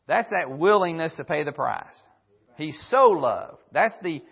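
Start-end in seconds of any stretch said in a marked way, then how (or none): 2.5-3.6 "loved" drawn out slowly and leaned on; preacher leaning hard on "loved"; stress on LOVED. Shown as a demonstration. Preacher to congregation, slow and stressing "loved". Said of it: "emphasis on the word love".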